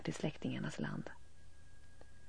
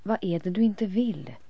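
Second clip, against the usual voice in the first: voices asking; 4 semitones higher, 6 dB louder than usual. A narrator's reading. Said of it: "frågar rösterna".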